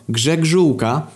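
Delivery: high put-on voice, rising at the end; surname answer. Sebastian giving his surname to police, high rising answer. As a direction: lift "Grzegżółka" up at the end.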